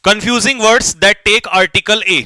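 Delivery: very slow, word by word; slow dictation to the class. Shown as a demonstration. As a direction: read it out slowly so they can write. Teacher dictating a heading.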